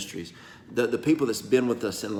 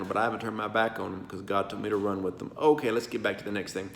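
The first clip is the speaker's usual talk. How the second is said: normal talking voice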